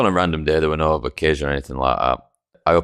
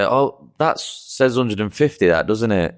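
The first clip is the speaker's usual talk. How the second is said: sly hinting; 4 semitones higher, slower than usual. Retold or imitated. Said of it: "I used to say".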